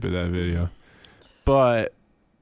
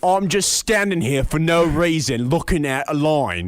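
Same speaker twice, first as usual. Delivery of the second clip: louder, higher mock sarcastic retort; super sarcastic; 5 semitones higher, 5 dB louder than usual. Imitating a local standing in line, super sarcastic. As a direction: lay the sarcasm on thick in a put-on voice. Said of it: "super sarcastic".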